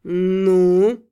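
low, unnaturally calm warrior. A narrator's reading. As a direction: ask with eerie calm, low. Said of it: "неестественно спокойно поинтересовался".

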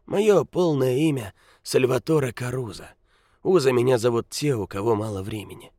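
put-on high, croaking old beggar; grumpy old man. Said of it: "закряхтел старик".

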